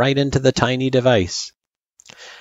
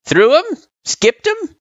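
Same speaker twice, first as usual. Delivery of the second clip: guffawing; 4 dB louder than usual. Acted. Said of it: "he guffawed".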